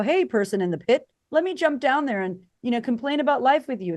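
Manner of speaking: mock friendly offer. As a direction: pretend to cheerfully join someone in the pit. Mocking someone stooping down.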